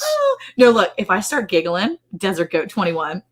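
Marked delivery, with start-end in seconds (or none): 0.0-0.7 laughing. Real, not acted. Laughing at the comment.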